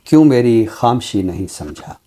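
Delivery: measured, unhurried reciting of a couplet; ghazal recitation. Acted. Poet recites his ghazal for the host, lingering and measured. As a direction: lift the opening line like a poet at a mushaira. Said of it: "गज़ल आज आपने अता की".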